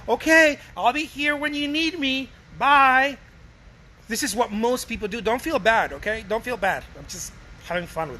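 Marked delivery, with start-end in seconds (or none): 0.1-3.2 bright, chirpy send-off, a little louder; mock-cheerful artist waving a buyer off; sing-song farewell to a buyer who won't return; overly sweet goodbye. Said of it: "And you're like".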